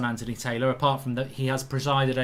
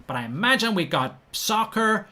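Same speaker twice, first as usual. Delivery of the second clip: American accent; 6 semitones higher than usual. Shown as a demonstration. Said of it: "I've gone a little bit American here".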